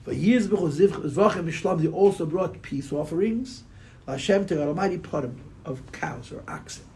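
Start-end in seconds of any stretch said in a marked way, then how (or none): 1.8-6.8 words sagging as sleep takes over; nodding off. Real, not acted. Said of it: "I'm literally falling asleep as I'm talking to you".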